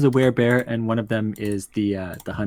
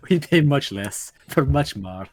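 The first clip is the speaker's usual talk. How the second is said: slow theatrical villain menace; slower than usual. Acted. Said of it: "you sound like a villain".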